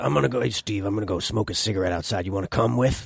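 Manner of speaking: low, deep rasp, gravelly voice. Recalling a man from his scenes, the speaker imitates his deep gravelly voice. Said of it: "deep and gravelly".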